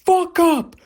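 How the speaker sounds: very high, loud, slow drawn-out shout; slow screeching shut up; imagined scream. Retold or imitated. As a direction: scream it in his face. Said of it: "just go".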